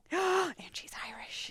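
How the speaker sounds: excited whisper. Real, not acted. Delighted gasp.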